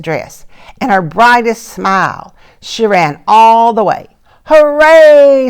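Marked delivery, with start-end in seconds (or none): 4.5-5.5 high, loud joyful hooray; excited cheer. Acted. Mouse runs to her first school day, shouting with joy. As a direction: cheer like a thrilled little girl. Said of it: "said Chrysanthemum".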